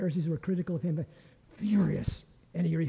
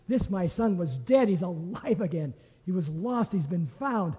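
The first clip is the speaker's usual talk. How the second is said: joyful proclamation; 3 dB louder than usual. Acted. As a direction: proclaim it like a father bursting with joy. Father rejoices to the servants.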